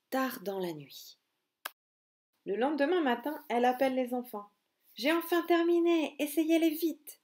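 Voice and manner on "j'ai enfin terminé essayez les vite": eager mother squirrel. Acted. Mother proudly calls the children.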